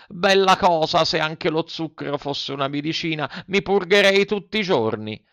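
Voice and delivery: put-on high, gleeful puppet boy; delighted Pinocchio. A narrator's reading. Puppet licks his lips after the sugar, delighted. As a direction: relish it in a high little voice. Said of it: "disse leccandosi i labbri".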